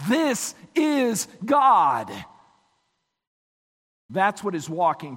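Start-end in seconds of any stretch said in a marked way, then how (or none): 0.1-2.1 slow, higher, each word set apart; solemn, emphatic declaration; emphatic proclamation. Real, not acted. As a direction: proclaim it slowly and weightily, GOD falling. Climax of sermon point.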